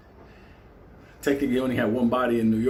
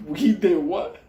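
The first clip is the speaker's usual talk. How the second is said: shocked inmates; 8 semitones higher, 5 dB louder, much slower than usual. Retold or imitated. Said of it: "Motherfuckers were like".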